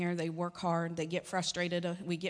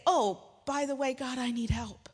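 offhand mock prayer; 4 semitones higher than usual. Mimics casual last-minute prayer.

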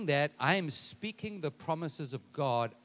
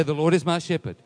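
louder preacher's call to repeat; emphatic declaration; 9 dB louder than usual. Shown as a demonstration. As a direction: call it out firmly to the congregation. Repeats it to rouse the congregation.

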